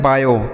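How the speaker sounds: बायो said as "baa-yo"; pronunciation demo. Shown as a demonstration. Teacher showing children how to read BIO, बायो as "baa-yo". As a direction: say बायो as two clear syllables, "baa-yo". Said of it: "इसे हम पढ़ते हैं".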